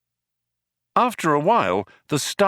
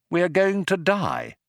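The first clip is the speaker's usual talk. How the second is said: higher-pitched, measured dread; dismayed realisation; 7 semitones higher than usual. Acted. Stranded man tells his companion they will die, dismayed. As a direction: spell it out high, word by word. Arthur faces death in the airlock.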